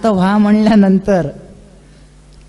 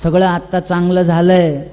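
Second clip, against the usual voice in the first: lower, gentle coaxing voice; sweet soothing words; 3 semitones lower than usual. Acted. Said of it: "फार गोड वाक्यामध्ये वीरभद्राने समजून सांगितलं". (गोड, शांत समजूत घालणारा आवाज)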